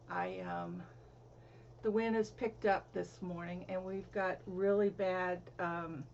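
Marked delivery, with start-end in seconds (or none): 0.1-0.8 talking between sips of coffee; words round a sip of coffee; while sipping a drink. Real, not acted. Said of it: "excuse me, I'm sipping". 3.7-5.4 mid-sip, words slightly muffled; while sipping a drink. Real, not acted. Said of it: "excuse me, I'm sipping".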